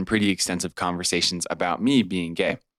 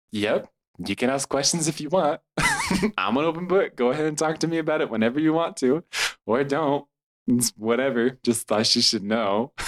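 breezy; 7 semitones higher than usual. Retold or imitated. Narrator breezily replying to companion.

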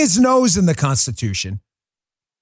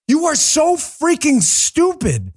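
slow, high, scornful insult; contemptuous; 6 semitones higher, slower than usual. Real, not acted. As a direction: spell out the contempt. Contempt for media critics.

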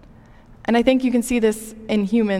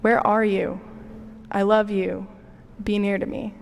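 gentle calling. Pretend. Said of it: "calls for us to be near".

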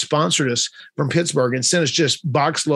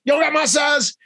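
much higher, shouted demand; excited shout; 12 semitones higher than usual. Retold or imitated. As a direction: yell it out, fully committed. Michael wants the same pants.

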